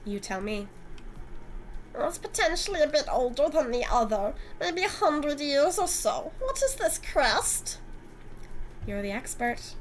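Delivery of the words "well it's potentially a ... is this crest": a lightly voiced smug, flirty antique dealer; smug Eric.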